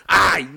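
sharp loud ouch; high, loud ouch; cry of pain. Acted. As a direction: yelp as if kicked. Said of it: "cria Macaré".

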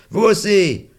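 high loud cry of warning; warning shout. Acted. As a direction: yell it down to the kids. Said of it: "dit Fred".

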